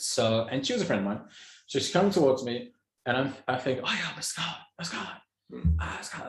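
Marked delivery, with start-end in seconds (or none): 3.8-6.3 hushed, repeated, effortful whisper. Retelling calling out to a figure in the dark: retelling a whisper. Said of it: "I'm trying to whisper".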